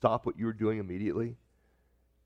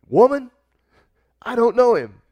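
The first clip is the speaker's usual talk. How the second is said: high, loud, defensive protest; loud denial; 9 semitones higher, 9 dB louder than usual. Acted. Peter denying the servant girl by the fire, loud protest. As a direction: blurt the denial out, startled and loud.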